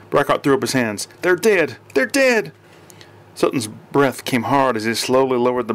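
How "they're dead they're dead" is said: urgent insistence. A narrator's reading. Calming the armed chief.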